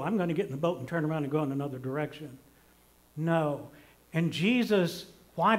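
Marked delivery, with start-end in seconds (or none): 0.0-2.4 fast, tossed-off mock excuse; a parent brushing off a crying child, quick and dismissive; rushed mock excuse. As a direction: rattle it off like a lame excuse.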